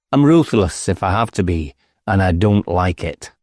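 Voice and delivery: a hint of a cold, ruthless detective; threatening inspector. Inspector threatening to haunt the village, menacing.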